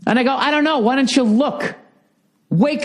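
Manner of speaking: high, heated back and forth; heated exchange. Retold or imitated. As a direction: argue it out, voice climbing. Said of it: "She just goes".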